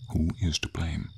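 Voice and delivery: firmer, fuller-voiced question; insistent question. Dragon refusing the knight's excuses, insistent question. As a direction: press the question firmly.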